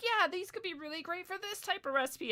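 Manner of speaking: high, over-keen small-talk voice; eager agreement. Retold or imitated. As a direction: agree brightly to keep the stranger connected. Reenacting eager small-talk reply.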